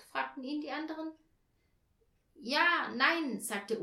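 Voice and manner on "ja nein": high, loud, faltering answer; hoarse. A narrator's reading. Olaf caught out by the others, hoarse. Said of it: "Seine Stimme klang ganz heiser".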